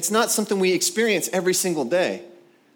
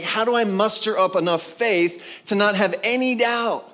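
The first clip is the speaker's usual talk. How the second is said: higher-pitched retold exasperation; recalling frustration, voice raised in pitch; frustrated; 5 semitones higher than usual. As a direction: plead it in acted frustration. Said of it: "was so frustrating for so many years".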